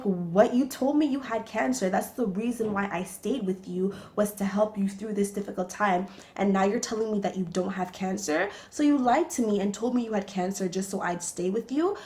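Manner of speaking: retold angry outburst. Girlfriend confronting boyfriend who faked cancer, indignant. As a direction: confront the liar with rising outrage. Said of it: "I got so pissed".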